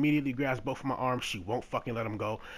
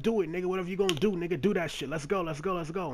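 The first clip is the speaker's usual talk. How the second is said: fast, higher egging-on taunt; daring taunt; 5 semitones higher, faster than usual. Retold or imitated. Daring the stranger to hit him, fast higher taunt. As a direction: rattle off the dare to fight.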